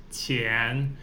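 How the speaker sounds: 前 slow and soft, qi whispered; 前 said qián, the qi part breathed unvoiced; q sound demo. Shown as a demonstration. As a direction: hiss qi softly, then say 前. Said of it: "start with the Q".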